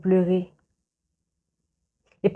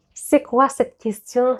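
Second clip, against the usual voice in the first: indignant; 6 semitones higher, 4 dB louder, slower than usual. Real, not acted. Outraged at the quoted phrase.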